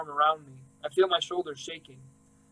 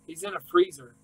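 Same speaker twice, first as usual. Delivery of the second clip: a daughter telling the operator, shaky and high; strained disbelief; 13 semitones higher than usual. Acted. Caller telling the operator where grandpa is, voice rising high. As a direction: voice jumps up high on the word in.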